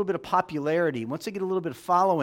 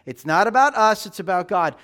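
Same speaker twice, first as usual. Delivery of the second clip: "It's not about us" punched louder, "about" stressed; louder refrain; 2 semitones higher, 6 dB louder than usual. Real, not acted. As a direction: hammer the refrain. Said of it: "repeated refrain".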